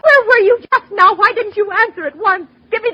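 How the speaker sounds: high, loud, near tears; panicked woman scolding the operator; frantic reproach. Acted. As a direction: snap at the late operator.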